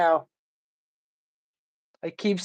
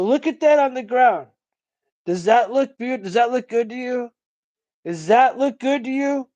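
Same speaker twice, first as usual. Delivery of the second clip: higher, pointed rhetorical scolding; scolding City Hall; 6 semitones higher than usual. Retold or imitated. Speaker lecturing City Hall crowd about litter, higher scolding. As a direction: shame the crowd with each question.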